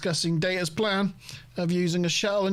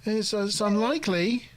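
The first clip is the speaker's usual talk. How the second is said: much higher mock android voice; host imitating Data, a higher mock voice; 6 semitones higher than usual. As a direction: play Data, measured and deadpan but high. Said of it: "Data's like".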